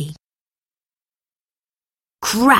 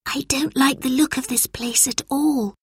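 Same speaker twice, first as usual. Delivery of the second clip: Lucy's voice, a bit higher and softer, grumbling; muttered complaint; 7 semitones higher, 4 dB quieter than usual. A narrator's reading. Lucy grumbles to her brother at the gloomy factory. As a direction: mutter it uneasily under her breath. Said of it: "muttered Lucy".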